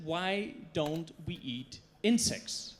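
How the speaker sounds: put-on slow, drawn-out question in a light Brazilian accent; a hint of a Brazilian accent, asked slowly. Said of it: "thick Brazilian accent".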